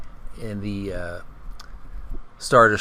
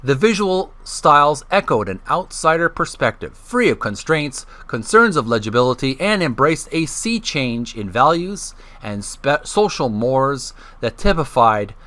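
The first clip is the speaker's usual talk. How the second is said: reading aloud. Acted. Host reads an art-history book to his channel's viewers, measured reading voice. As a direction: read the passage out for listeners.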